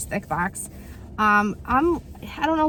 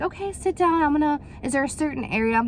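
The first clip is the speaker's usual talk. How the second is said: imitating the masseur; 6 semitones higher than usual. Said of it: "the gentleman was like".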